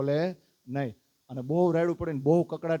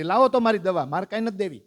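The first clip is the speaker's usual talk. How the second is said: louder, sharp grab-back of the medicine; snatch it back, offended mother; louder, indignant mother reclaiming her medicine; indignant demand; 3 semitones higher, 5 dB louder, faster than usual. Acted.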